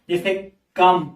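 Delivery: कम said slowly with a short अ vowel, "kum"; slow teacher demo of कम with an अ vowel; short a sound. Shown as a demonstration. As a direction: draw out कम so the ओ sounds like अ. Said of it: "तो यहाँ पर अ का sound दे रहा है ओ".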